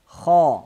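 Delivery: "Ха" heavy, rounded towards "хо"; emphatic kh with a rounded vowel in "Ха"; hard KHA. Shown as a demonstration. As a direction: say a firm, dark "Ха". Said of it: "Вот так".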